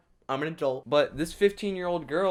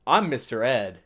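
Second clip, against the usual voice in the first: calm horse imitation; 2 semitones lower, 4 dB louder than usual. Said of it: "the horse is just very calmly just like".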